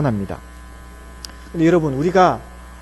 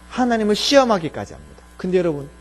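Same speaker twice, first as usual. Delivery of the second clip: ordinary delivery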